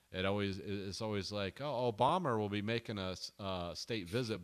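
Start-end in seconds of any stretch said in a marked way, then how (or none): 1.6-4.4 lightly attempted British accent; newsreader-like British, Obama ending in an R. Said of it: "whenever they were talking about President Obama".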